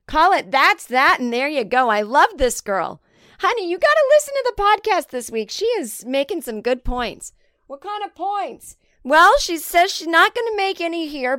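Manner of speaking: high, gushing listener voice; mock fan gushing about the podcast; imagined fan voice. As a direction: play a gushing fan talking to her husband.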